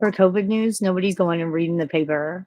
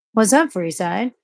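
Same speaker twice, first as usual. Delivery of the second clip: mock cashier greeting; 4 semitones higher, 6 dB louder, slower than usual.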